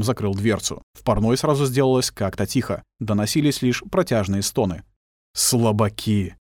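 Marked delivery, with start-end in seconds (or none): 5.3-6.3 inner thought. A narrator's reading. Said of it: "подумал Глеб".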